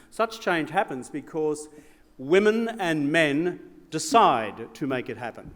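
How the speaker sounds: measured, rising oratory with big builds; formal speech. Acted. Former Prime Minister addressing the gala crowd, in grand formal oratory. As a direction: deliver it like a statesman's keynote.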